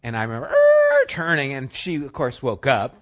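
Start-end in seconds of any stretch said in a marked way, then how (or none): 0.5-1.1 loud high skidding noise; imitated tire screech. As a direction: screech like tires sliding round a corner. Imitates tires screeching while sliding out.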